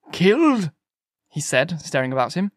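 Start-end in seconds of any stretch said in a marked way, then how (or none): 0.1-0.7 high-pitched disbelieving echo; astonished. A narrator's reading. Curate hears a Martian was killed, astonished. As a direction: echo the word in shock.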